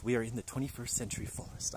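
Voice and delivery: mock documentary survival narrator; Bear Grylls impression. Shown as a demonstration. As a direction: try a Bear Grylls-style British accent. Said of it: "Bear Grylls voice".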